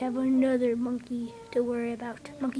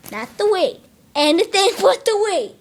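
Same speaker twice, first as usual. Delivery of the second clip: being tickled; 4 semitones higher, 8 dB louder than usual. Acted. Pleading, laughing under attack.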